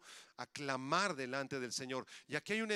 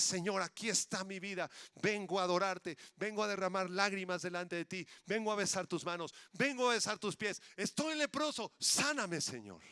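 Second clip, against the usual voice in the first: fervent prayer; 3 semitones higher, 3 dB louder than usual. Acted. Voiced prayer of surrender.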